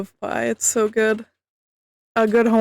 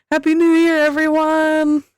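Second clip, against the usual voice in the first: excited cheer; 6 semitones higher than usual. Real, not acted. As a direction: draw out the greeting gleefully. Cheering after midnight.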